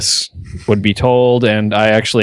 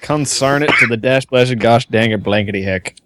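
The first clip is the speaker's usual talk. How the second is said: put-on grumpy old-timer. Old-timer cussing bit.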